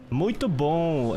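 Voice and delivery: "Muito bom" slow and sing-song, Brazilian style; melodic Brazilian Portuguese. Shown as a demonstration. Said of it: "it's very melodic".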